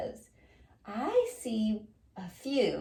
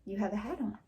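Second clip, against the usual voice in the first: softer repeat, falling like a plain statement; 2 semitones lower, 5 dB quieter, faster than usual. Shown as a demonstration. Teacher repeating a statement more softly for the class. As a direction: say it again more quietly, a flat telling. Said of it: "Did I ask something?".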